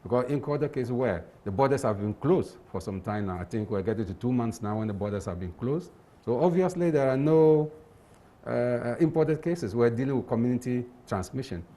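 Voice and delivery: muffled behind a face mask; speaking through a face mask. Real, not acted. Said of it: "I'm speaking through the mask".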